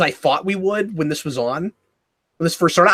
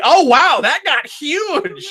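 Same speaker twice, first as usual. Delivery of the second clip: mock amazement; 9 semitones higher, much slower than usual. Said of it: "you're like".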